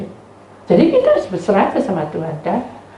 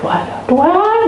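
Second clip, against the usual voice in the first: put-on high, raised child's prayer; imitated child shouting; 10 semitones higher, 4 dB louder, slower than usual. Child praying for mother, high shouted voice. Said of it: "teriak-teriak gitu".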